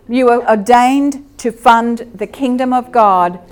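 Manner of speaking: preacher decreeing over the land; slow forceful decree. Retold or imitated. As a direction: declare it with authority. Decree spoken over the oil.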